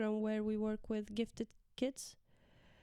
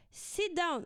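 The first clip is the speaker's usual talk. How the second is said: firmer sit down; 7 semitones higher than usual. Retold or imitated. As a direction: raise the voice on "Sit down". Third command, raised.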